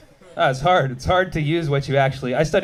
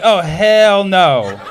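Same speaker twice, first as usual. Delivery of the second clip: mock outrage; 5 dB louder, much slower than usual. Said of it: "I was like".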